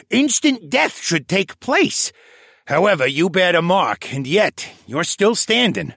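put-on old koala elder voice. A narrator's reading. Old koala elder Tovish speaks.

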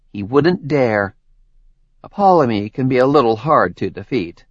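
friendly, chatty woman explaining; Tori's voice. Acted. Tori explains to Jericho.

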